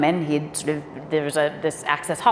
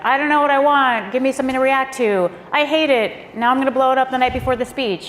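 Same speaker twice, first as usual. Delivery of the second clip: fickle client; 8 semitones higher than usual. Retold or imitated. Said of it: "the person's like".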